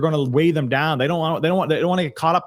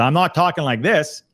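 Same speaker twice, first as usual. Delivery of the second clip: regular forceful self; 2 semitones higher than usual. Shown as a demonstration. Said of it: "my regular self".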